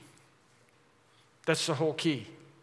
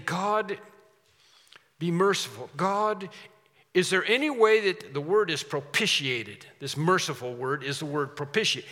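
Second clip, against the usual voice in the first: an earnest plea to God, pitched up and pressing; pleading sinner; 3 semitones higher, 3 dB louder than usual. Acted. A preacher voicing the tax collector pleading with God for mercy. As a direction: beg for mercy with rising urgency.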